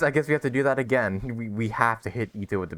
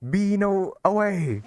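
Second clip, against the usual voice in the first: mock heroic yell, higher and louder; playful battle cry; 10 semitones higher, 3 dB louder, slower than usual. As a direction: hurl the words like a throw. Throwing beans again, playful.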